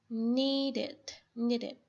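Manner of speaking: "Need it" run together with a short final vowel; need it linked. Shown as a demonstration. A teacher models "Need it" twice for her student, linked and short. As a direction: link "Need it", the second syllable clipped.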